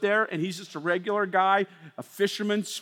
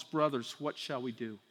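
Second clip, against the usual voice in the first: much softer, lower plea; stricken crowd; 10 semitones lower, 13 dB quieter than usual. Acted. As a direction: ask it quietly, cut to the heart.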